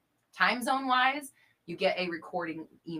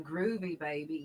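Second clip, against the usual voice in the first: Austin Powers; slower than usual. Pretend. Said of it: "What is that accent called?".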